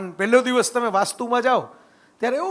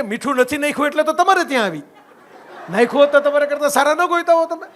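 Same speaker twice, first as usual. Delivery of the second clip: louder, laughing comeback to the husband; wife's sharp retort; 5 semitones higher, 5 dB louder than usual. Retold or imitated. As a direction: fire back at him with a laugh. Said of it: "અને કહે કે". (હસતાં હસતાં મોટેથી ટોણો)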